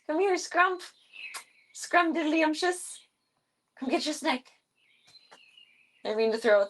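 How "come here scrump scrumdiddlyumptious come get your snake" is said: pet-calling voice. Real, not acted. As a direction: coax the pet over in a high sing-song. Baby-talking to a pet.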